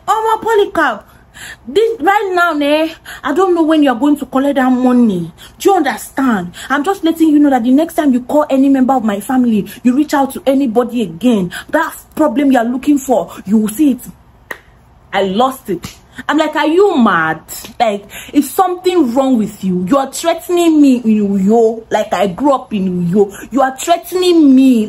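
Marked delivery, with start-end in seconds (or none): 0.0-14.1 much higher, mocking take on his warning; hammed-up imitation of a man threatening; mock menacing voice, higher throughout; mimicking a threatening friend. Voicing Tim's threat. 16.5-24.9 mild mock yell of disbelief; retold screaming. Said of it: "I was screaming on top of my voice".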